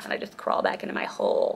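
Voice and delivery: quick whispered aside; breathy muttered whisper. Real, not acted. Unvoiced line.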